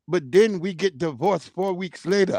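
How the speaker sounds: mock Arab-accented food vendor. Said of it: "He was an Arab too".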